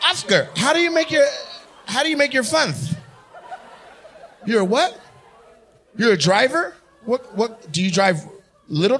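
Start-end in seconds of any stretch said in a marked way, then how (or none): 1.9-2.9 "funds" ending in a th; mock lisped "funds"; teasing lisp. Mocking the man's lisp.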